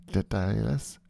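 Dedalus drawn into a rising question; trying a pronunciation. Shown as a demonstration. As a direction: test Dedalus with a questioning lift. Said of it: "Let's stick with Dedalus".

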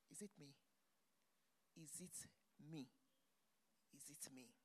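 soft, hushed, half-whispered wonder; quietly marvelling at her own blessing; awed whisper. Real, not acted. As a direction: ask yourself in a disbelieving hush. Self-questioning in wonder.

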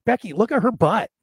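hammed-up Valley Girl voice. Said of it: "the Valley Girl stuff".

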